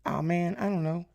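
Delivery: high-pitched imitation of a student; mock student voice, pitched well up; Spencer. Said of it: "His voice is more like".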